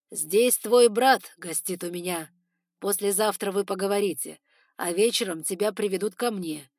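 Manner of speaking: loud threat. Acted. Lord threatening her brother.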